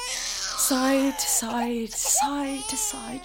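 put-on bouncing a baby. Rocking baby slowly.

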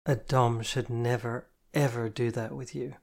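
earnest warning, slowed down; serious. Acted. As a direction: lay down the rule seriously. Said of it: "she explained seriously".

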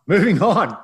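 big, high, loud announcer call; playful loud transition holler; hammed-up segment shout. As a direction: sing it out loud and high to move the show along. Host hams up segment transition.

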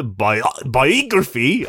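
"biography" drawn out slowly with the sounds deliberately off; mock mispronunciation. Shown as a demonstration. Co-host mocks the rival way, "biography" slow and oddly stressed. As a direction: stretch "biography" as if testing an absurd pronunciation. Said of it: "I don't say it like that".

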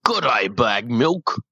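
put-on London accent. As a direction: greet the host like an English gangster. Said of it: "Arthur Shelby, you're up next".

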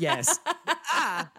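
loud, high panicked yes, breaking into laughter; panicked monosyllable. Retold or imitated. Imitating a cornered contestant for co-host, panicked. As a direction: blurt it in mock panic. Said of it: "a heightened sense of panic".

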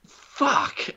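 high breathy whispered swear; whispered curse. Retold or imitated. Realizing he lost money, high whispered curse. Outcome wiped out his reward.

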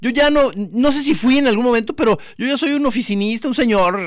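mock self-quote. Telling the group he's now an office worker, high mock plea. Retelling what he told the others.

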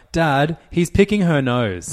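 put-on high, slow child's tattling voice; tattling little kid. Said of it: "Tilly will be like".

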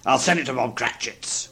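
ordinary delivery

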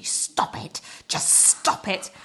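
whispered telling-off, drawn out on "just stop it"; urgent whisper. Retold or imitated. Partner telling a giggler off at a recital, urgent whisper. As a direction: hiss it under your breath to a giggler.

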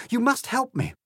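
high, loud appeal for help; Alice's desperate plea; crying out. A narrator's reading. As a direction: beg urgently, pitched well up. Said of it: "cried Alice".

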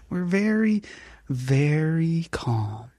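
lightly voiced serene mother, drawn out; Michelle Duggar voice. Reading as Michelle for the podcast, slow and calm. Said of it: "you gotta do your best Michelle Duggar voice".

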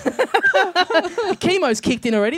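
hammed-up pity for the sick guy; mock sad pity. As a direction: drawl it with fake sympathy. Mock pity for cancer joke.

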